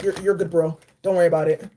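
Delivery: voicing Archangel Michael low and calm; deep reassuring guardian voice, easy and unhurried; low soothing angel voice. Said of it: "Archangel Michael's like".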